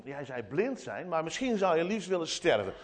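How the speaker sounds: ordinary talk, nothing marked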